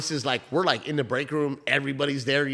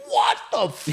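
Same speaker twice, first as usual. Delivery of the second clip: retold disbelief; 3 semitones higher than usual. Group's stunned reaction, retold.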